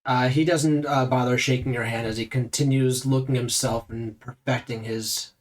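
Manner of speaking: ordinary talk, nothing marked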